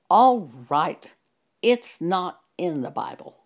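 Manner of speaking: loud burst on the opening words, then easing; mild imitation of a pastor yelling it out; retold yell. Pastor yelling out to the caller who pressed him, retold yell. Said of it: "he yelled out".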